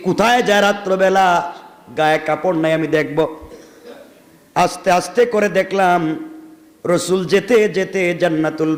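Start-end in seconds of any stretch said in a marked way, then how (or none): none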